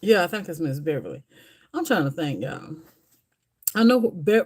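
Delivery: normal talking voice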